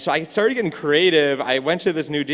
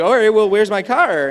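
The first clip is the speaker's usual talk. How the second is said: exasperated demand; 8 semitones higher, 6 dB louder than usual. Retold or imitated. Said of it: "and I'm like".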